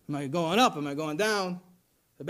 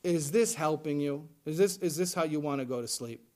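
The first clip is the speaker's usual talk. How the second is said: gentle God voice; 5 semitones lower than usual. Retold or imitated. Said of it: "And God says to you".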